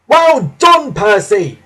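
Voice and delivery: high, loud cheer of praise; excited shout. A narrator's reading. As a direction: shout praise from a racing cab. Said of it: "he shouted".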